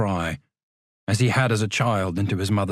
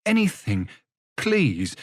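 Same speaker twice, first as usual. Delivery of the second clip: high, pleading cry; begging; 6 semitones higher, slower than usual. Acted. Samuel begging the young man for spare change. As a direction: plead for anything at all. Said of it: "Samuel begged".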